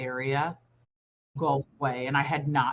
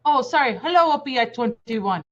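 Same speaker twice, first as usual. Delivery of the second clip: bright high greeting, louder; cheerful greeting; 8 semitones higher, 5 dB louder than usual. Retold or imitated. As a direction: greet them sweetly and loud. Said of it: "she goes".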